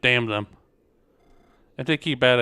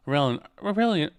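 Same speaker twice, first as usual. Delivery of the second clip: character voice; 5 semitones higher, faster than usual. Acted. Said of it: "I was doing a voice for her".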